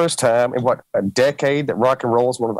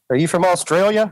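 puzzled listener; 7 semitones higher than usual. Retold or imitated. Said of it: "They're like".

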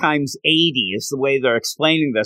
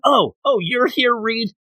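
mock coach; 8 semitones higher than usual. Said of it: "where the coach goes".

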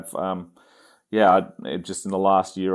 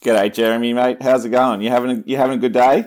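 loud, higher, quick-fire mock Aussie greeting; exaggerated Australian accent; 4 semitones higher, 7 dB louder, faster than usual. Guest hamming up a greeting to the host, exaggerated Australian accent. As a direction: lay the Australian accent on thick. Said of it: "you don't actually talk like that".

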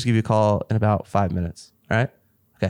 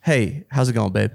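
put-on girlfriend voice. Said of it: "I can flip that voice on immediately".

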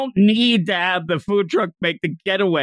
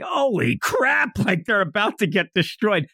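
mock alarm; 5 semitones higher than usual. Podcaster voices pursuers about to be destroyed, mock alarm.

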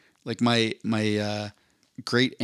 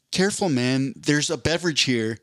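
quoting the Dude; 3 semitones higher than usual. Retold or imitated. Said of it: "the quote is".

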